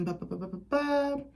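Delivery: absent-minded placeholder babble, quiet; idle "ba ba ba". Real, not acted. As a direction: fill the gap with little ba-ba sounds. Filling time while finding her place.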